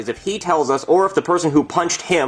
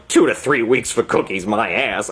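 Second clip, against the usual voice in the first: understated, lower-pitched bitter grumble; grumbling anger; 4 semitones lower than usual. Retold or imitated. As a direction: sulk angrily in your own register. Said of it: "I say as I shove a cookie into my mouth in anger".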